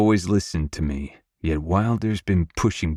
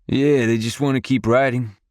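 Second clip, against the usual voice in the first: higher, lightly insistent brother; 6 semitones higher than usual. A narrator's reading. Jagger defending his nephews to his brother, insistent. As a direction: push back in defence of the boys. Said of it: "Jagger insists".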